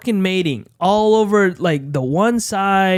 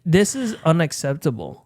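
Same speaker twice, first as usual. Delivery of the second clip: deadpan; 4 dB quieter than usual. Retold or imitated. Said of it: "And I was like".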